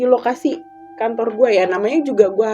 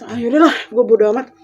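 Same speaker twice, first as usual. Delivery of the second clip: weary plea. Retold or imitated. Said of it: "gue bilang gitu".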